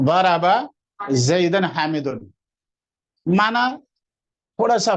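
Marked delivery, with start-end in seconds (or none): 1.1-2.2 زیدن حامدن read slowly with nunation; careful slow Arabic example; slow Arabic words. Shown as a demonstration. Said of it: "زیدن کر دیا".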